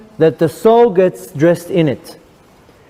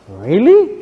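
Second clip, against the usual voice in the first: put-on eager kid. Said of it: "telling a little kid".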